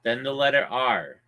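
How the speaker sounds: spelling it out. Shown as a demonstration. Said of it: "I'm spelling it for you".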